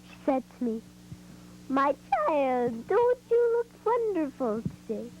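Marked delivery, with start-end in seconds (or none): 1.7-5.1 witch voice. Retold or imitated. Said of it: "she sounded exactly like a witch".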